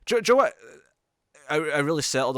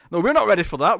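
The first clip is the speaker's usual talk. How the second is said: mock panic; 6 semitones higher, 6 dB louder, faster than usual. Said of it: "she's like".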